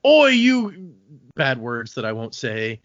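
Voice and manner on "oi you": a high, loud mock yell at the crowd; mock shout. Retold Barb snapping at the convention crowd, mock shout. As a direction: bark it out, caught in fan-chat mode. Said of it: "she's like".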